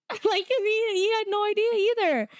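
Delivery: high, laughing through the words; can't help laughing while explaining. Real, not acted. Laughs while telling the story.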